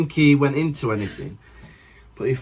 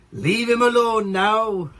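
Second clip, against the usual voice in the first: stern bystander; 7 semitones higher, slower than usual. Retold or imitated. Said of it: "the guy helping him was like".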